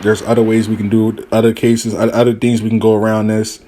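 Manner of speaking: low, level reassurance; calming persuasion. Retold or imitated. Advisor talking client out of it, low and calming. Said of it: "I'm trying to calm her down".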